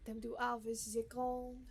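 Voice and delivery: mock French accent on harvest the corn; bad French accent. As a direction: put on a hammed-up French accent. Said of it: "Is my French accent bad?".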